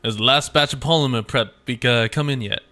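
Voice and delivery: mildly annoyed British factory worker; hint of a cross character, rising in disbelief; lightly voiced irate game character. Streamer voicing a game character chasing a late batch, lightly irate.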